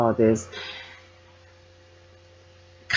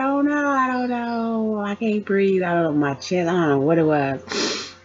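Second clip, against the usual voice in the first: panicked patient; 8 semitones higher than usual. Retold or imitated. Panicked patient answering doctor.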